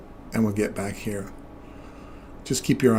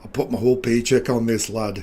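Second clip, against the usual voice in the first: mock Scottish accent, forceful; cartoon Scottish lad-talk; Groundskeeper Willie; 4 dB louder than usual. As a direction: put on a playful Scottish brogue. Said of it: "groundskeeper Willie".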